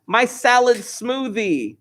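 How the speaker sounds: mock toddler yell. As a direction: imitate a little kid calling back, drawn out. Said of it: "she yells back".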